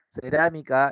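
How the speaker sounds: cerámica with weight on RÁ; stress on third-last syllable. Shown as a demonstration. Teacher classing a word for students, cerámica stressed on RÁ. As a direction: lean on the second syllable of cerámica. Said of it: "es esdrújula".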